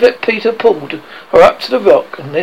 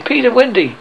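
raised call across the water; shouting; 6 semitones higher than usual. A narrator's reading. Boys shouting for Peter and Wendy, calling. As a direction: call out their names.

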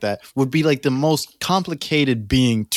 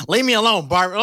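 higher-pitched mock hurt plea; imitating hurt; 7 semitones higher, faster than usual. Friend imitating Claire's hurt reply to Barbara, mock wounded. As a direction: plead as if wounded, lightly hammed up. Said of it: "Claire sounded real hurt five seconds ago".

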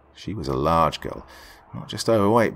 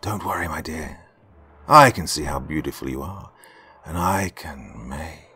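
comforting; 4 semitones lower than usual. Acted. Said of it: "comforting her".

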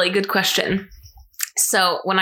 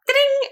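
high-pitched little bell ding; excited ding. Retold or imitated. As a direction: chime it like a bell in the ear. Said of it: "it's almost like an excitement, like a".

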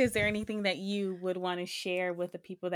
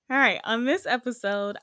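high-pitched excited; 5 semitones higher, 7 dB louder than usual. Real, not acted. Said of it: "how high-pitched my voice got".

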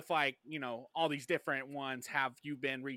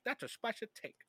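higher, hammy Latino-accented catchphrase; 8 semitones higher, 4 dB quieter than usual. Shown as a demonstration. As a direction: punch it with a mock Latino lilt. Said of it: "a Latino cut from you, like, saying".

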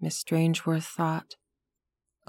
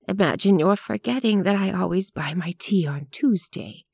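gently; 3 semitones higher than usual. Acted. Elderly lady to the tired grocer, gentle and kind. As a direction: coax him kindly. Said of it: "said gently".

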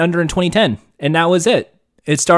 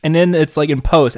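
usual speaking voice

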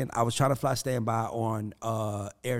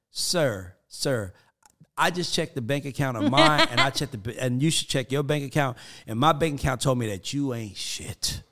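mocking reply; 4 dB louder than usual. Mock reply to a stranger.

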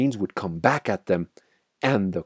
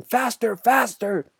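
very high, frenzied shout; 14 semitones higher than usual. A narrator's reading. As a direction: cry it out like a madman driving them on.

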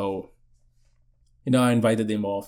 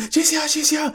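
high-pitched excited announcing; excited commotion. Acted. Friends in commotion over her arrival, high and excited. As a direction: spread the news in a high, hurried voice.

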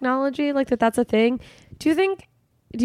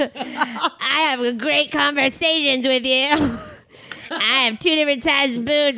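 high, slow, laughing pitch of a sugar troll; mock dating ad; 6 semitones higher, slower than usual. Woman mocks her own dating profile, laughing and high. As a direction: ham it up like a self-mocking dating profile. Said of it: "It's like".

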